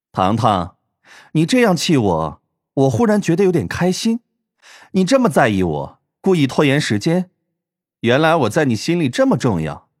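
put-on coy, lightly lilting girl voice; lightly voiced playful villainess; teasing villainess. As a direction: needle him as if flattered.

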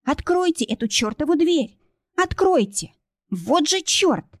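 high, desperate demand to open; desperate pleading. A narrator's reading. Kristina begs someone to open the door, desperate. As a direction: beg and curse at the door. Locked out in blizzard.

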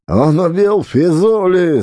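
high alarmed yell; shouting. A narrator's reading. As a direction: scream it down the corridor. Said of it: "заорал боцман".

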